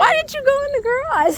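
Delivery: high, loud incredulous question; loud challenge. Real, not acted. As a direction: call them out at full pitch. Teasing challenge about parking on curb.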